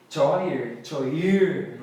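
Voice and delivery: "choir" misread with a CH as in "chore"; wrong pronunciation. Shown as a demonstration. Teacher shows learners the mistaken "choir", mispronounced with CH. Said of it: "Nada disso que eu falei".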